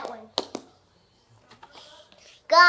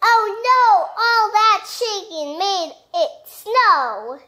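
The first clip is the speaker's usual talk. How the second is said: higher, louder oh no; storybook dismay; 5 semitones higher, 5 dB louder than usual. Acted. Parent reading, character upset by snow. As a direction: ham up the upset.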